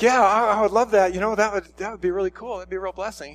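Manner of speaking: put-on high, loud, thrilled little boy; eager kid. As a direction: gush like a ten-year-old promised a gift. Ten-year-old eager for stamps.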